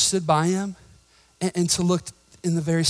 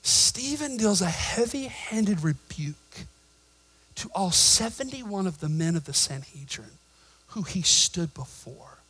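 ordinary delivery

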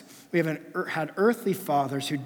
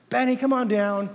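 higher, louder call up the stairs; 8 semitones higher, 8 dB louder than usual. Retold or imitated. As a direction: summon the boy from below. Dad calling son downstairs.

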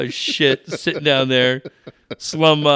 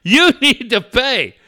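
slow mock scammer; 7 semitones higher, 4 dB louder than usual. Scammer Steve voiced again.

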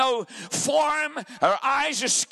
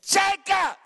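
Leah's voice; 8 semitones higher than usual. Retold or imitated. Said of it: "That's the way she talked".

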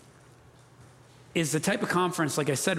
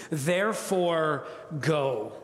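deliberate emphasis; much slower than usual. Real, not acted. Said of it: "sounds something like this".

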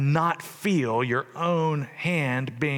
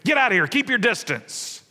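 raised, higher-pitched shooing away; mock yelling; 4 semitones higher than usual. Preacher voicing a crowd chasing off the leper, mock yelling. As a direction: drive him off with a half-raised yell. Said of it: "they were also yelling at the leper".

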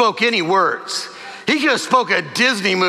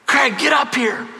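a hint of wife calling from upstairs, pitch up; mild mock call; 4 semitones higher, slower than usual. Wife calling husband from upstairs, mild mock call. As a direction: call his name up the stairs, lightly. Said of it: "my wife came calling from upstairs".

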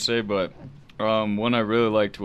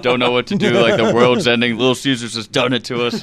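louder laughing mock panic; 2 semitones higher, 7 dB louder than usual. Retells panicked ad scene.

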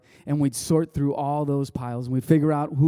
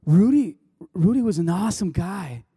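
emotional retelling; 4 semitones higher than usual. Retold or imitated. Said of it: "He's like / he starts to cry".

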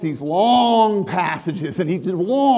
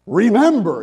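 Remember, said boldly and a bit louder; bold command; 3 semitones higher, 5 dB louder than usual. Retold or imitated. Voicing Paul to the church, a bold command. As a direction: make Remember a bold order. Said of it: "in a very bold way".

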